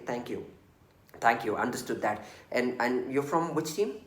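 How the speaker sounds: polite, grateful and unhurried; courteous. Shown as a demonstration. A manager thanking a team before asking, courteous. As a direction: thank them first, then ask gently. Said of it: "be courteous and say".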